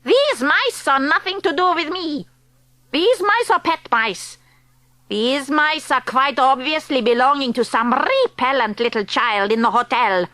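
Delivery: a hint of a foreign witch accent. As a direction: speak as the stern witch leader. Grand High Witch dismissive.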